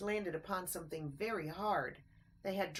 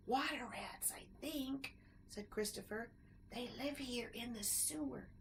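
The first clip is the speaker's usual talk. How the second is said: softer frightened answer; hushed; 5 semitones higher, 7 dB quieter than usual. A narrator's reading. Christopher answering Ted, hushed and careful. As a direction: keep your voice down.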